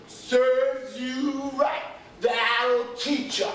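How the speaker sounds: slow, scolding father; stern father voice. Retold or imitated. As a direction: drag it out like a told-off dad. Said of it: "He would have said to me".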